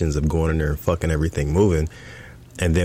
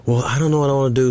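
mimicking wife; 9 semitones higher, much faster than usual. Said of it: "So she's".

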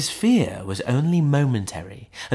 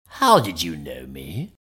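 low Hyde voice; 6 semitones lower than usual. A narrator's reading. Hyde speaking.

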